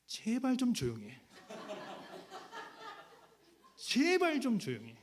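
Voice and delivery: a wife in labor begging him to shut up; exasperated plea. Retold or imitated. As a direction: beg for silence, fed up. Exhausted wife snapping at husband.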